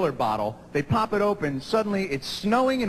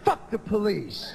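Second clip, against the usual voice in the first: riled-up yelling; 5 semitones higher, 3 dB quieter, slower than usual. Retold or imitated. Friends riled up about verdict.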